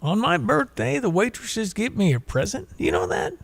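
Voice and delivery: a hint of a frail old veteran; old man voice. Telling a stranger on the plane about birthday gifts, lightly voiced old man. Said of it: "And he says".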